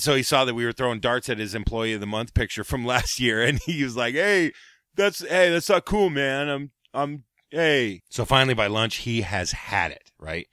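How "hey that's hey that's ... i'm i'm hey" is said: higher, flustered stammering protest; mild whiny objection; hurt protest. Retold or imitated. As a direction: sputter at the insult. Doug protests the darts.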